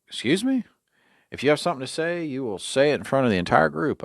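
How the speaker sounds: sharp, high, offended challenge; indignant retort. Retold or imitated. To the boss before the group, indignant challenge. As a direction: call him out in front of everyone.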